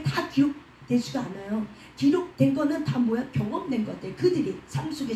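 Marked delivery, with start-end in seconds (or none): none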